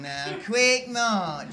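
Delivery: drill order. Acted. Sergeant gives march order.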